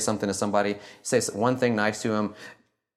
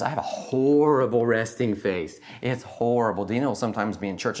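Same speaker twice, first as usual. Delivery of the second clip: ordinary delivery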